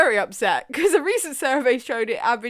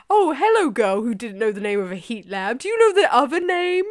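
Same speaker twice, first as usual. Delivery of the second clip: mimicking co-host's way; 4 dB louder than usual. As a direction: tease with an exaggerated imitation. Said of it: "It's just the way you said it".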